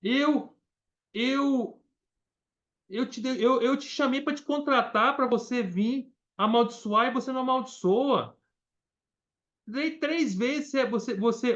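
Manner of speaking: exasperated king Balak. Retold or imitated. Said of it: "ficou bravo com ele".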